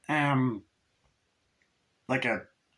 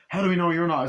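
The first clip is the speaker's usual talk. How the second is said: raised, higher challenge; acted challenge; 6 semitones higher, 5 dB louder, faster than usual. Suspicious crewmate challenges the leader, acted raised challenge. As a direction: throw it out as an accusing demand.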